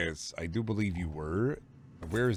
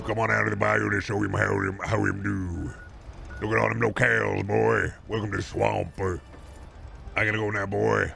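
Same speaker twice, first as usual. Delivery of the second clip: hammed-up bayou local welcoming you in; bayou Southern voice. Streamer greets the viewer to the bayou in a hammed-up Southern voice.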